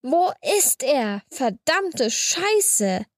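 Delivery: drawn-out, indignant yell held at normal volume; angry bellow. A narrator's reading. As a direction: stretch each word out in contained fury. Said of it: "und brüllt".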